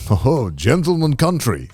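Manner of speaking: lightly voiced old Japanese taxi driver; slow, drawn-out imitation of an old man; imitating old driver. Old taxi driver praising passenger's homeland, lightly imitated. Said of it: "dude is so old. And he's like".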